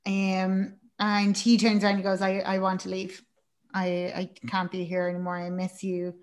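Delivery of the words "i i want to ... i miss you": softly voiced, downbeat quote; hushed, low-key imitation of pleading; subdued retold plea. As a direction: say it quietly, like a subdued confession. Acted plea to leave.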